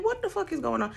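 high, incredulous disbelief; shocked. Retold or imitated. Seeing the naked lady, high-pitched disbelief. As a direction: yelp it out in total disbelief.

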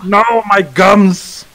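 slow, mock old man with loose teeth; loose dentures. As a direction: gum the words like a toothless old man. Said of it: "My dentures fell out".

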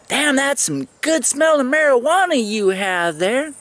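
high, lightly voiced woman's exclamation; imitating the lady. The sergeant praising his marijuana, in a high mock woman's voice. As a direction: toss it off as the impressed lady. Retold lady admiring the smell.

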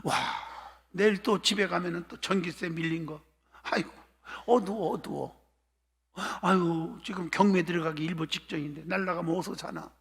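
soft sighing, mock-worried musing; acted anxious brooding. Preacher plays churchgoer brooding over unpaid bills, worried sighing. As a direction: fret quietly to yourself between sighs. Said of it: "근심이 있어".

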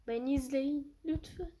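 hushed, begging whisper; pleading whisper. Acted. Youtuber begging viewers to watch, in a whisper.

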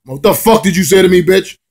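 high-pitched indignant comeback; mock outrage. His retort to her insult, mock indignant.

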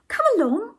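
high, loud summons; crying out. A narrator's reading. Ethel calls him to the cab, high loud cry. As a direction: call out in a high character voice. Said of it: "cried Ethel".

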